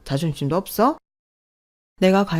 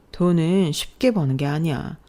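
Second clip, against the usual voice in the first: usual speaking voice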